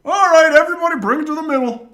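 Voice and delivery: high, loud call to the team; coach calling out. Retold or imitated. Coach calling everybody to the middle, high loud shout. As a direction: call it across the field.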